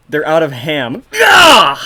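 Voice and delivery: badly faked sobbing cry; mock despair. Mock grief at market.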